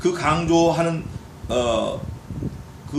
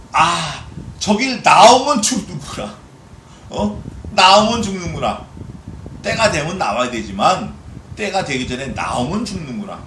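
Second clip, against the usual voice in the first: fish's realization; 5 dB louder than usual. Acted. Preacher voices fish realizing danger.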